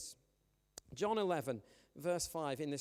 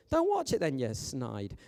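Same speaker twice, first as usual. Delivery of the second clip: teasing shout; 8 dB louder than usual. Real, not acted. Teasing the kids on stream.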